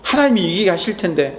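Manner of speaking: tender comfort to oneself; reassuring. Pretend. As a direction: tell yourself it will be alright. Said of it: "라고".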